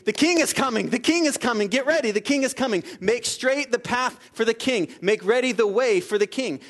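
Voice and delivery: loud, high, calling out like a herald; herald's proclamation. Retold or imitated. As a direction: announce the king to the whole town. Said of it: "the herald would run out and he'd say".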